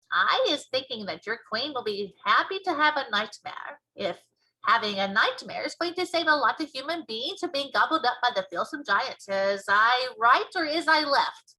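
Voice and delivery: put-on cheerfully convince the girl, slowing at the end; BFG voice. BFG persuading Sophie.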